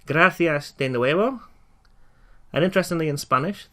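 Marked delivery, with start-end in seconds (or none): 0.1-1.4 "Gracias de nuevo" slow with a rising end; teacher modelling the phrase; slow model. Shown as a demonstration. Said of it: "as we say the words in Spanish".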